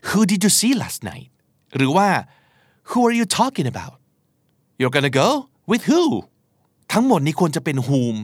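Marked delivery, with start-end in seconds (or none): 0.1-1.3 slow, careful English example; slow clear model sentence; slow demo sentence. Shown as a demonstration. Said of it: "เราก็เลยจะได้ยินเจ้าของภาษาบอกว่า". 2.9-6.0 slow, higher English example; slow model dialogue; slow demo sentence. Shown as a demonstration. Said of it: "เราก็เลยจะได้ยินเจ้าของภาษาบอกว่า".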